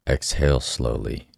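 calm guided meditation voice. Acted. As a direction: guide them inward, gently. Leads a meditation.

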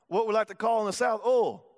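oil said the Southern way, as one drawn syllable. Shown as a demonstration. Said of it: "I don't think that's how you say it".

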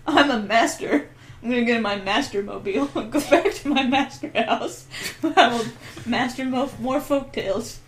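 lightly voiced parody of a folklorist; a hint of an accidental Obama impression; Joe Hayes. Podcaster playing the offended guest storyteller, lightly put-on voice. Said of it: "me as apparently Obama, as Joe Hayes".

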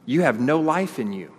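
preacher reading Jesus' words with force; solemn proclamation. Acted. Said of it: "So Jesus said to them".

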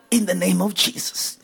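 quiet, low prayerful murmur; half-voiced prayer, drawing inward; soft prayer. Real, not acted. Praying softly for the congregation, low and hushed. Repeated prayer phrase, softer.

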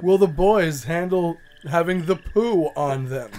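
slow teaser, breaking into laughs; laughing announcer tease. Acted. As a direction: tease the next episode, laughing. Mock episode teaser.

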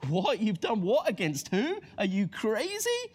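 what, against who, are you crazy; incredulous sailors. Acted. Sailors to Jonah, incredulous and mildly alarmed.

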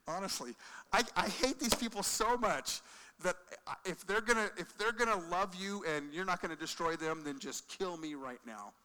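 mildly voiced Jonah, fed up and bitter; Jonah's bitter complaint. Preacher voicing Jonah's grudge against Nineveh, bitter. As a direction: let Jonah spit out his grudge, then sink.

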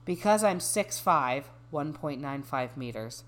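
measured, even reading voice; reading aloud. Acted. Reading a dating bio to a friend, measured reading voice. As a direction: read it out evenly, settling down at sentence ends.

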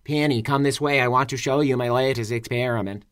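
a hint of robot voice, even and mechanical; lightly voiced text-to-speech robot. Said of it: "Are you gonna do your robot voice?".

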